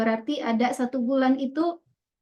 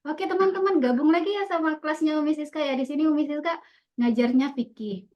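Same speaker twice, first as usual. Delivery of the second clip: welcoming class demo; 2 semitones higher than usual. Shown as a demonstration. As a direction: greet the pupils like their teacher. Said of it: "Kita menyampaikannya aturan kayak gini".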